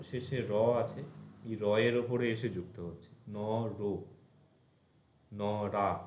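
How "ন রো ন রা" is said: ন held apart from রো and রা; two clear syllables, ন then রো or রা. Shown as a demonstration. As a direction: join the ending onto র: ন, রো, ন, রা. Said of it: "এইরকমভাবে".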